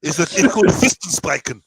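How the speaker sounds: made-up German-sounding word; put-on German accent, deadpan; mock German accent. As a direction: say it like a fake German term. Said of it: "Why are you sounding like a German".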